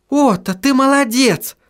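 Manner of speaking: high cheering call to Otto; подбадривающий крик, высоко; cheering shout. Acted. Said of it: "закричала Сахариса".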